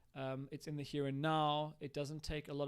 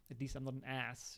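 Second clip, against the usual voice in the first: put-on child response; 6 dB quieter than usual. Shown as a demonstration. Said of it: "and then child response".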